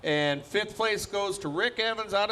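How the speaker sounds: live announcer calling results; tractor pull announcer. Acted. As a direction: call it over the PA.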